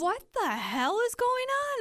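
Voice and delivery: high, slow mock wail; retold weepy bewilderment. Bride retelling breaking down at the shoot, high mock-weepy wail.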